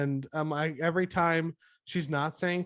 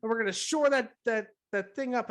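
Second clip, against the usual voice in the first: patronising; 7 semitones higher than usual. Retold or imitated. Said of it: "she goes".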